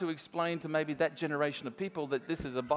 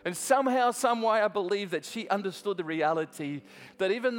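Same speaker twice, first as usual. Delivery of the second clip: preacher pressing the point home; preaching. Acted. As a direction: build the appeal to the congregation. Preaching the application.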